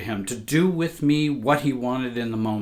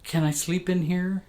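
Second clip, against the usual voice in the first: put-on higher, small child's voice, timid and pleading; scared little girl; 7 semitones higher than usual. Little girl begging her mother to sleep with her, timid and high. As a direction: ask like a frightened little girl at night. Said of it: "I said".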